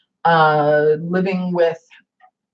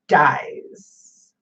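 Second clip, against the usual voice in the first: a breathy whispered aside; whispered dies; 3 semitones lower than usual. Real, not acted. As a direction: drop to a hush on the last word. Plants always die, whispered.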